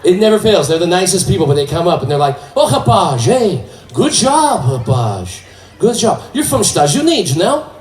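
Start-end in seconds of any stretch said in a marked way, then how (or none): 2.5-7.7 excited Portuguese immigrant voice, higher; eager Portuguese accent. Retold or imitated. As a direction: play an eager Portuguese uncle with a thick accent. Portuguese-Canadian fan approaching comedian.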